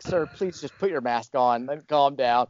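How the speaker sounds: gently slow down to settle someone; calming plea. Retold or imitated. Hospital worker asking patient to mask up, calm imitation.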